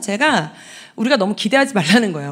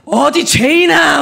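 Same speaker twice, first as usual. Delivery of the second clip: stern Jesus; 3 semitones higher, 5 dB louder, slower than usual. Retold or imitated. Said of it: "막 이러셨지?".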